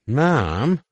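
put-on high, loud scared child; frightened girl cry. Frightened daughter cries out.

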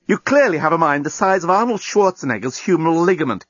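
scathing tirade. A narrator's reading. Lucy berates the journalist for advising calm, outraged. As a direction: build from sarcasm to high-pitched outrage.

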